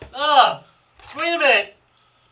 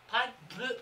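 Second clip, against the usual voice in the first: usual speaking voice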